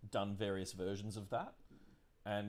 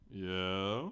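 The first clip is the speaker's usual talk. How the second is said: helium voice; 5 dB louder than usual. Shown as a demonstration. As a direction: voice pitched up like a chipmunk. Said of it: "in my best chipmunk voice or non-best chipmunk voice".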